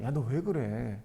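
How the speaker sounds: soft, low gentle reproof; gentle chiding. Acted. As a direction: quietly reason with someone upset. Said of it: "하나님이 약간 타이르는 거야". (부드럽게 타이르는 말투)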